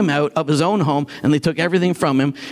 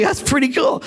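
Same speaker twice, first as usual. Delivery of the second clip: excited half-shout, pitched up; 7 semitones higher than usual. Retold or imitated. Hearing a blind woman was healed, excited shout. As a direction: burst out at the news of the healing. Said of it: "I was like".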